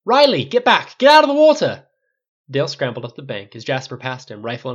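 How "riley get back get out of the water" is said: furious high bellow; thundering shout. A narrator's reading. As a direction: thunder the order at full voice. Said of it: "Flynn thundered towards him".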